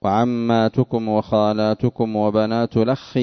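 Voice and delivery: slow, measured recitation, "الأخ" linked as lakhkhi; "الأخ" as lakhkhi in a slow Quranic reading; Nafi's recitation. Shown as a demonstration. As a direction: recite slowly, dropping the hamza of "الأخ" and doubling its خ. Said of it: "فيقرأ".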